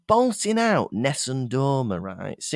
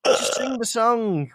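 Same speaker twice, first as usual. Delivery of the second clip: raised, pleading mock protest; exasperated; 7 semitones higher than usual. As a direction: plead with the busker in mild exasperation. Acted exasperated reaction to busker.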